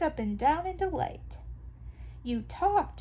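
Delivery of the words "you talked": excited cry. Acted. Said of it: "she cried".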